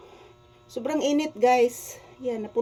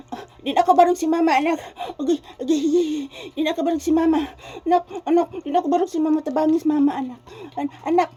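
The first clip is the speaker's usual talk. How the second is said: high, loud mock lament for mama; hammed-up crying "di na ako barong si mama"; mock wailing; 5 semitones higher, 4 dB louder, faster than usual. Mother playfully pretends to wail. (pakunwaring pagdangoyngoy sa inahan)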